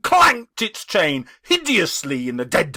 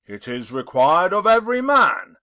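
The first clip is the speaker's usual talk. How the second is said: louder, grave spectral voice; a dead man's warning, intoned; solemn ghost; 4 dB louder than usual. Acted. The ghost speaks.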